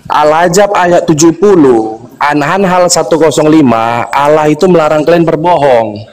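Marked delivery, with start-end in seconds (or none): 0.0-4.1 slow, each word laid out; slow careful re-asking; slowed-down repeat. Shown as a demonstration. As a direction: say it again slowly so it lands. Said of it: "Oke, saya ulangi".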